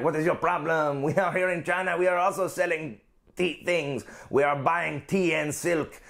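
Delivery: lightly put-on French accent. The French defending their trade in China, light French accent. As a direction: protest with a hint of a French accent. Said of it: "the French." And they're like".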